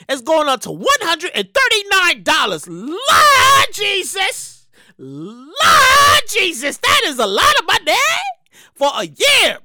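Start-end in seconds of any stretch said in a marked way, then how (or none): 2.7-6.8 drawn-out exclamation. Real, not acted. Shocked at price rise.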